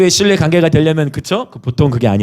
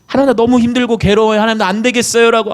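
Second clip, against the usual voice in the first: anguished prayer; 9 semitones higher than usual. Acted. Acted anguished prayer to God.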